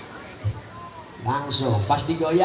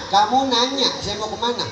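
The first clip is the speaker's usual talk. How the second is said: teasing, higher voiced brat; cheeky kid reply; 5 semitones higher than usual. Preacher voices a cheeky kid answering his mother, teasing. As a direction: sass back like a cheeky child. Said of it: "bocahnya doang".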